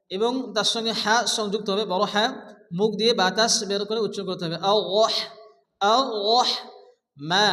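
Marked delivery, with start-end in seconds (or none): 4.7-6.5 আল্লাহ with thick, full l; heavy Allah. Shown as a demonstration. Teacher demonstrating thick pronunciation of আল্লাহ. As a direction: make the l of আল্লাহ heavy and dark. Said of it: "মোটা করে উচ্চারণ করে পড়তে হবে আল্লাহ".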